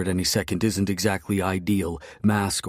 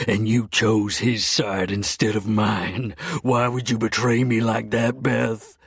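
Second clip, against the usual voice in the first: louder, higher hurt accusation; betrayed fury; 5 semitones higher, 4 dB louder than usual. Acted. Hero to Bethany, betrayed, louder and higher. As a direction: demand it, wounded.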